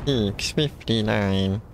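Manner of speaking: alien voice. Pretend. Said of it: "they've got a funny alien voice".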